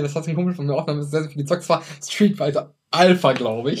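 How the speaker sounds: mumbled while swallowing a burp; talking through a held-back burp; barely audible. Real, not acted. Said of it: "Ich versteh dich kaum schon".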